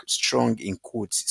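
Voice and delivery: slow, stressed "strong"; emphasized. Shown as a demonstration. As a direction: lean hard on "strong" slowly. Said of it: "See the way I'm emphasizing it".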